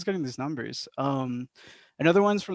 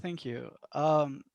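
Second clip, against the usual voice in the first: barely audible; 7 dB quieter than usual. Real, not acted. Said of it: "we can barely hear you".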